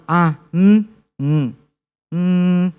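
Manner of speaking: hesitant humming between pauses; hesitant filler sounds. Shown as a demonstration. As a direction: imitate thinking noises, drawn out. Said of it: "your pacing will be very slow".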